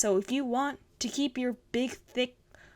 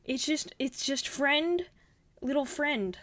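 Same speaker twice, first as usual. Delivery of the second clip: cute little character voice; 4 semitones higher than usual. Retold or imitated. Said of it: "and he's like".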